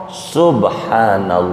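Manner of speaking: awed murmur. Retold or imitated. Acted awe, lost for words.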